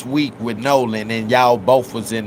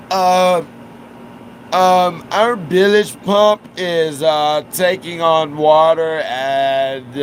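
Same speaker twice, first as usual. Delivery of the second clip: put-on slow, slurred drunk voice, pitched higher; drunk impression; 4 semitones higher, slower than usual. Imitating drunk Wyatt on the phone call, slurred and slow. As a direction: drag the words out like he's wasted. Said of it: "that's how he sounded".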